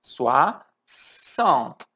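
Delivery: Soixante with the mouth wide open, swa-sant. Shown as a demonstration. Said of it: "abre bem".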